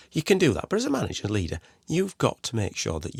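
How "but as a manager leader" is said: ordinary talk, nothing marked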